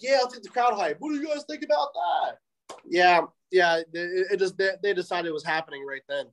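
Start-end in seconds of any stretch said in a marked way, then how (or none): 0.0-2.4 high, rising call to the crowd; hyping the crowd. Retold or imitated. Wrestler calling out to the crowd, hyped and high. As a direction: pump up the audience. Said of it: "I'm like".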